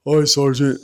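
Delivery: lightly imitated dim-witted soldier; a hint of a simple, obedient private; Chavez. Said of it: "that's how he talked".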